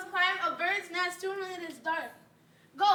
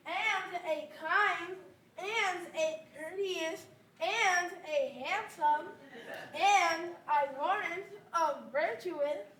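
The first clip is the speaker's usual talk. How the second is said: teasing drawl; 3 dB quieter, slower than usual. Acted. Nurse teases by drawing it out.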